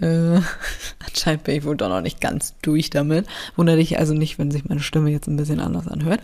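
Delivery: blocked nose, stuffy voice. Real, not acted. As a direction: talk through a stuffy nose. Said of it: "meine Nase ist wieder dicht".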